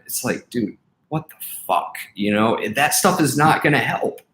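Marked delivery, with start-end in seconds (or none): none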